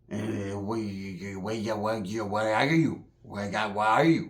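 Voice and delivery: low, slow, mumbled imitation; crazy paisa. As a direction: slur it low and soft, spun out. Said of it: "he sounds all crazy".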